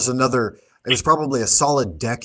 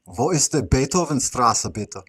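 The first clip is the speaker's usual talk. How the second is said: put-on a lightly German-accented tourist question; German phrase; 3 semitones higher than usual. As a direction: play the lost tourist asking in German. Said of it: "Meine Deutsche ist nicht sehr gut".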